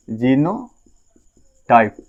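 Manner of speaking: जीनोटाइप stretched out very slowly, syllable by syllable; slow drawn-out term. Shown as a demonstration. Teacher spelling out the new word for students, very slow. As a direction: draw जीनोटाइप out slowly for the class to repeat.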